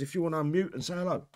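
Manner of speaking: breathless, rushing the words; short of air at the end of a long list; out of breath. Real, not acted. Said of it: "Oh, I was running out of breath there".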